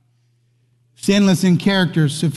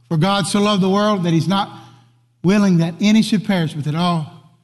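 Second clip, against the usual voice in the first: leading a recitation. Shown as a demonstration. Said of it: "finish it for me".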